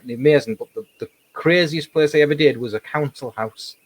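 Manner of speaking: usual speaking voice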